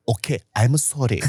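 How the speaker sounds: put-on mild Korean-accented apology; meek accented apology. Old man backing down before big server, Korean-accented apology. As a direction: back down in a light Korean accent. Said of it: "He's not even angry".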